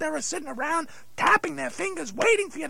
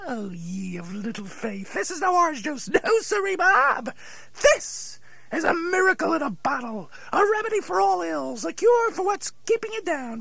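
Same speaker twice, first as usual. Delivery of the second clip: snake oil seller. Acted. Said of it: "you sound like a snake oil salesman".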